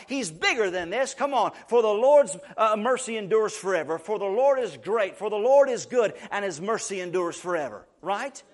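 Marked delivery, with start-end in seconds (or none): 1.7-7.9 ringing praise proclamation. Acted. Preacher proclaims praise verse.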